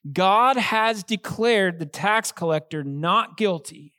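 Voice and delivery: slow, emphatic pronouncement; emphatic declaration. Retold or imitated. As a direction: declare it firmly, drawing out each stressed word. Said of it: "Jesus emphatically states this truth".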